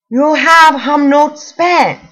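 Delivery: put-on "You have hum not spent" slow, loud, insistent in an Asian accent; thick Asian accent. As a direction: repeat it slowly in a heavy Asian accent. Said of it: "thickest Asian accent I have ever heard".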